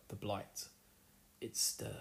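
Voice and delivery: slow, understated ominous pronouncement; deep and grave. Retold or imitated. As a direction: retell it gravely, pausing midway. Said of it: "Agamar goes really deep on him".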